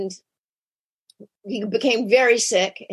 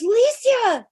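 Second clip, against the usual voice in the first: brother answering; 12 semitones higher than usual. Retold or imitated. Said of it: "He goes".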